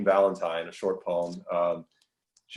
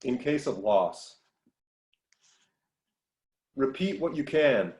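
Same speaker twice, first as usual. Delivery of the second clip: higher-pitched, deliberate poetry reading; measured recital with clear line breaks; poem reading; 5 semitones higher than usual. Acted. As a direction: read each line as a separate instruction in verse. Begins reading next poem.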